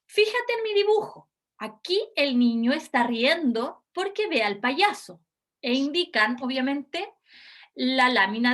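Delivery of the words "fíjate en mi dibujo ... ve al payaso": lightly voiced test examiner, higher pitch. Shown as a demonstration. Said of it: "Practiquemos entonces un ejemplo".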